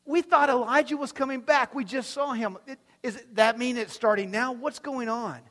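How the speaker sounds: overwhelmed followers asking what is happening; bewildered disciples. Acted. Confused disciples voiced in sermon.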